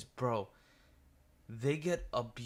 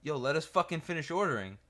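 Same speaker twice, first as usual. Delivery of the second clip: annoyed friend; 6 semitones higher, 5 dB louder than usual. Retold or imitated. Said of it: "he ends up saying".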